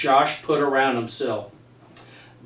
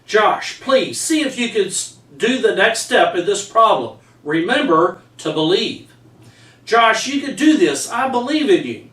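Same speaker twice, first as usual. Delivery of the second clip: higher, gentle coaxing teacher voice; encouraging teacher; 3 semitones higher than usual. Retold or imitated. Teacher urging his student Josh to try, encouraging. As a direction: coax him along patiently, like a teacher at his desk.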